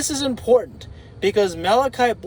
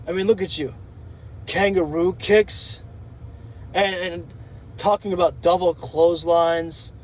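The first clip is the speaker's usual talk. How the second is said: a lightly voiced menacing wrestler promo, pitched lower; Malachi Black promo; 3 semitones lower than usual. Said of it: "a small promo like that from Malachi Black".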